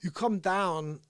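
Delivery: riff as a hinted boastful politician; Donald Trump impression. Streamer praising Mike before playing songs, in light Trump impression. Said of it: "when it improvises Trump".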